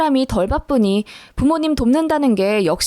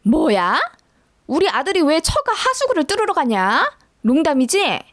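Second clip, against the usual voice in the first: mother-in-law aghast, higher-pitched protest; indignant disbelief; 4 semitones higher than usual. A narrator's reading. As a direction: demand to know, as if it must be a joke. (어이없어 따지는 시어머니)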